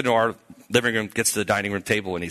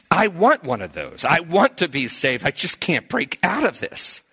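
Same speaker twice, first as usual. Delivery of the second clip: higher-pitched, pleading cry, acted; retold crying out; 5 semitones higher than usual. Youth leader confessing his wish to be saved, crying out. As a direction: imitate an aching plea. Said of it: "I'm crying out saying".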